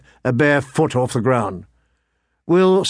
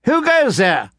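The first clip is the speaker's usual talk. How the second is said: high, called out challenge; calling out; 9 semitones higher than usual. Acted. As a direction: call into the dark, uncertain. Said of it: "the lordling called out suddenly".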